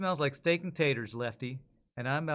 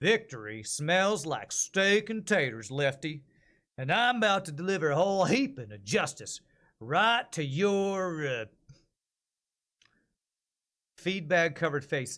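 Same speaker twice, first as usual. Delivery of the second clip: put-on Texas lawman accent with drawn-out "your"; 3 semitones higher, 3 dB louder than usual. Voicing the marshal hero taunting a bandit: texas lawman voice. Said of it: "I'm going with, um, Texas lawman".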